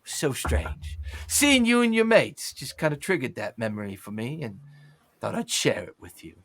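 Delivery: puzzled, half to himself; musing mercenary. Acted. Slackjaw continues musing.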